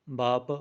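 "ਬਾਪ" said lightly, not heavy; soft pronunciation. Shown as a demonstration. Teacher correcting a learner, "ਬਾਪ" said softly. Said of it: "ਪੋਲਾ ਜਿਹਾ ਬੋਲਣਾ ਹੈ".

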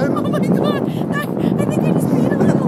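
screaming laughter. Real, not acted. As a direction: shriek and laugh in real panic.

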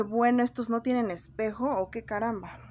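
loud mocking rant. Real, not acted. Mocking bullies' looks.

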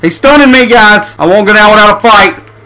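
excited shouting. Real, not acted. Being attacked in game.

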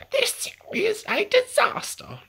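a duck in full panic; panicked duck. Acted. Duck panics over lost egg.

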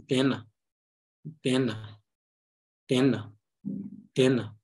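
"dena" joined smoothly, emphasis held back; natural flow. Shown as a demonstration. Teacher drills word reading for learners, smoothly joined. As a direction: repeat "dena" with no break between its syllables. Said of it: "try to keep the emphasis".

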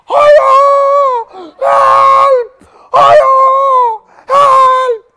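high loud panicked cries; shouting for help. Acted. Boy calling his mother from a nightmare, high panicked shout. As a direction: yell for your mother in terror. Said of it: "he's shouting".

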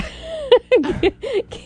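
high giggle; laughing. Real, not acted. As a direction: burst out in a giggle.

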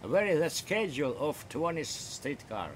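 slow American-style English phrasing; American English accent. Shown as a demonstration. Contrasting American with British English for the chat partner. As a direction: ask it the way an American would. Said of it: "По-американски".

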